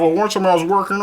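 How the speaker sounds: dad's voice jumping up an octave; mock voice jump. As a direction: let the voice leap up mid-sentence. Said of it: "his voice goes up an octave".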